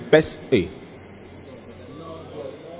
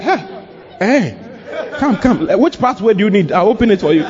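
welcoming God; 4 semitones higher than usual. Acted. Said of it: "The Bible says".

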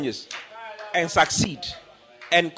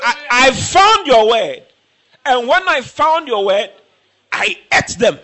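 slow fervent declaration; 4 semitones higher, 4 dB louder, slower than usual. Acted. Voicing Jeremiah's words.

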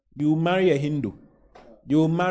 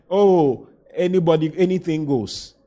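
louder, easy-going mock exclamation; mock carefree; 2 semitones higher, 5 dB louder than usual. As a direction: play someone who accepts anyone. Voicing an undiscerning person.

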